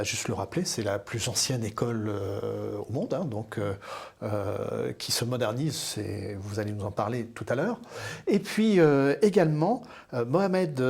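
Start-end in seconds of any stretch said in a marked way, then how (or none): none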